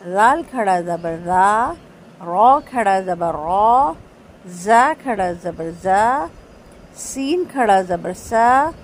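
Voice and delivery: each letter with کھڑا زبر drawn out long; long aa drill. Shown as a demonstration. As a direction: chant the long aa syllables slowly. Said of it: "دیکھیں فرق دیکھیں". (کھڑا زبر کی مشق، لمبی آواز)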